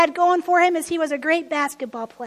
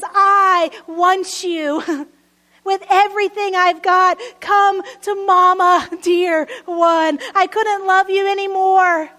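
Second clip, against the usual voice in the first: louder, fervent pleading as Jesus; a pastor's full-voiced plea as Jesus, calling the lost home; impassioned plea; 2 semitones higher, 6 dB louder, slower than usual. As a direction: call them in with everything you've got. Preacher voicing Jesus' plea.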